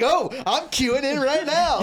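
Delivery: high-pitched, eager retold outburst; so excited. Viewer jumping into the marble race, retold excitement. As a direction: jump at the invitation, voice way up. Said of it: "I got so excited".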